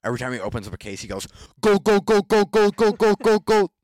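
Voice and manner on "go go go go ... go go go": loud, high German streamer impression; German accent. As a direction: shout it like an excited German. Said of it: "he's got that, like, accent".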